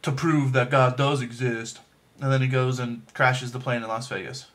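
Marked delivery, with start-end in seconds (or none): 0.0-1.8 lightly imitating Nicolas Cage. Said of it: "he's like".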